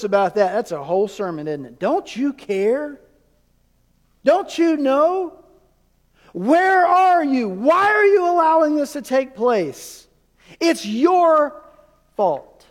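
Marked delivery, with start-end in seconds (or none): 1.8-12.6 high, loud, slow anguished questions; desperate pleading. Retold or imitated. Disciples crying out to sleeping Jesus, anguished and pleading. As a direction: beg and accuse in panic.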